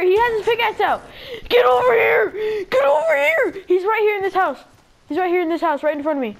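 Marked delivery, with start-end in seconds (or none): 1.5-3.6 urgent shout. Real, not acted. Calling a teammate over mid-fight, shouting. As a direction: shout for him to come now.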